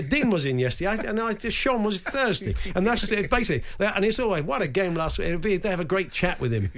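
put-on Greek accent, chatty barber; Greek barber impression. Barber greeting his football-manager customers, Greek accent. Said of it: "your Greek barber impression".

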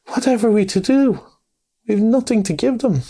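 high-pitched dismayed fretting; Mole, despairing. A narrator's reading. Host with nothing to give his guests, despairing. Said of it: "he cried in despair".

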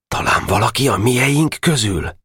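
a touch of sad worry; fearing a traitor among friends; mildly sad boyish question. A narrator's reading. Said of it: "szomorúan felelt".

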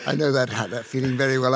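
usual speaking voice

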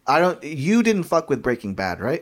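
ordinary talk, nothing marked

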